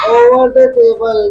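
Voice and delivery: put-on very slow, each word drawn out for the children; slow model answer. Shown as a demonstration. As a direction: spell it out slowly so kids can repeat. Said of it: "क्या होगा?". (धीरे-धीरे, हर शब्द खींचकर)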